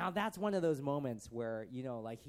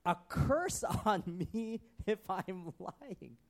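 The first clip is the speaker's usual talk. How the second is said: slow, high, dramatic vow; theatrical self-cursing oath; swearing a curse; 4 semitones higher, much slower than usual. Acted. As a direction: swear it with heavy drawn-out drama. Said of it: "And Peter swore".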